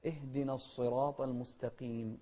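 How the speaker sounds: المستقيم with q only mildly heavy before long i; lightened qaf. Shown as a demonstration. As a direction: keep the q of المستقيم gently emphatic. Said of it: "أقل تفخيما". (المستقيم بقاف أقل تفخيمًا)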